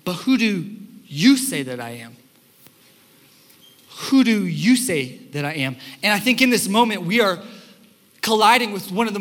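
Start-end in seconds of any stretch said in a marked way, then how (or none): 0.0-5.8 low, earnest question, voice dropping; a hint of Jesus pressing his disciples; lightly voiced solemn Jesus. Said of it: "And then he said to them".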